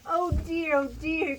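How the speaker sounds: worried pig. A narrator's reading. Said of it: "cried the pig".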